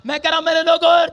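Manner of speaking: loud, driving sermon delivery; fiery preaching. Acted. Pastor rousing his church about healing tonight, full-force preaching. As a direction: preach it out to the congregation.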